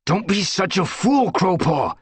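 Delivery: high, loud rebuke; scolding. Acted. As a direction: snap at the reckless apprentice. Brambleclaw scolds Crowpaw.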